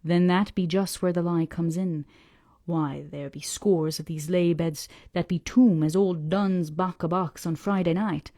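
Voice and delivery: put-on slow, gruff old sailor grumbling about lies; an old salt scorning the parsons' tales, slowly; old Yorkshire fisherman.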